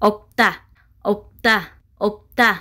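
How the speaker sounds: "Опта" as two separate, even syllables; pronunciation demo. Shown as a demonstration. Teacher has learners pronounce together, "Опта" modelled evenly. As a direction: model "Опта" three times with pauses. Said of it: "Якҷо талаффуз мекунем".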